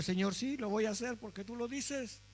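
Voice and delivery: soft, yielding obedience to God; humble surrender. Shown as a demonstration. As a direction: say yes to the Lord gently, giving in. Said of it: "A veces hay que obedecer así". (sumisión suave y humilde)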